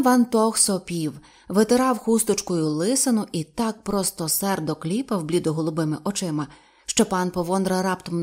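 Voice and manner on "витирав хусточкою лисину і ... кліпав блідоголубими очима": plain reading voice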